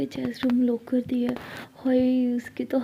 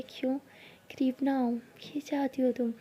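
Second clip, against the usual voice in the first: teasing whisper; 9 dB quieter than usual. Acted. Jaya whispering teasingly to Sara. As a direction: tease her in a hush.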